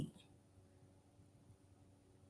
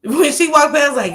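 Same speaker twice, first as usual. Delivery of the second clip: ordinary delivery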